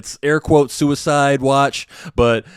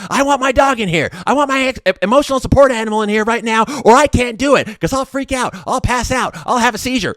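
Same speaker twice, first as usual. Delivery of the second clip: high, pleading mock whine; mocking the patient begging for her support animal; mocking whiny patient; 11 semitones higher than usual. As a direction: whine up high, threatening to faint. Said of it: "this lady will just".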